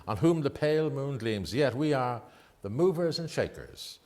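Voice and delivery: measured, lilting poetry reading; poem recitation. Acted. Presenter reciting a famous poem to the radio host, lilting. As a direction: savour each line of the verse.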